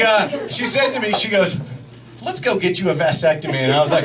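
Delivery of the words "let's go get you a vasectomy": quick, matter-of-fact suggestion; brisk, unexcited proposal; scary-proposal energy. Retold or imitated. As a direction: toss it out fast and low-key. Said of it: "the energy's completely different".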